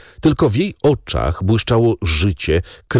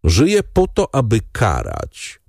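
fierce resolve; 3 semitones higher than usual. Acted. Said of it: "patrząc płomiennym wzrokiem".

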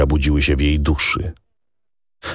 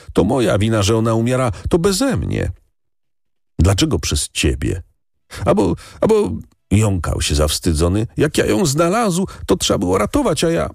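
put-on high, tearful village boy; peasant boy; 7 semitones higher than usual. A narrator's reading. Boy tells the lady, high and tearful. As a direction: speak as a guilty little shepherd boy.

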